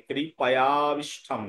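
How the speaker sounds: কৃপায়া আবিষ্ঠম with the second আ merged into the first; half-sounded আ. Shown as a demonstration. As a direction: glide through কৃপায়া আবিষ্ঠম as joined words. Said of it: "উচ্চারণ হবে".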